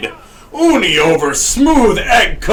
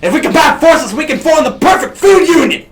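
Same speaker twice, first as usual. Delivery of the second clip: loud, high rallying cry; Colonel Sanders voice; 8 semitones higher, 4 dB louder than usual. Acted. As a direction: proclaim it like a hero. Colonel character proclaims.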